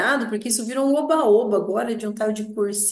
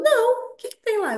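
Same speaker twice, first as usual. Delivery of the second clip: retold surprised question; 12 semitones higher than usual. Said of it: "Ele falou".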